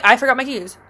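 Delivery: breezy cover story; nonchalant. Retold or imitated. To the landlord, a casual lie, nonchalant. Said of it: "Just nonchalant".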